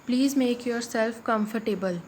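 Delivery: very slow, word by word; slow dictation. Shown as a demonstration. Teacher reading the sentence to students, very slowly. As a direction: lay each word out for the class. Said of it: "इस sentence में जो".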